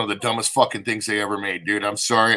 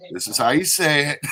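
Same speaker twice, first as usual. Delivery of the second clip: higher, deliberate word-by-word retelling; slowed down; 4 semitones higher than usual. Retold or imitated. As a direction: spell it out carefully as if slowed down. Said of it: "get slowed down and be like".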